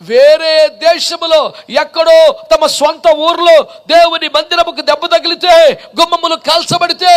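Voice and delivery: forceful preaching. Real, not acted. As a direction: preach it with building urgency.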